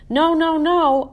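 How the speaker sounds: panicked realization, voice jumps up; dismayed no. A narrator's reading. Hamster sees upside-down writing.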